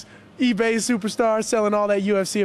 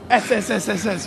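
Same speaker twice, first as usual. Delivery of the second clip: drawn-out s like a snake. Retold or imitated. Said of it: "You know how snakes go".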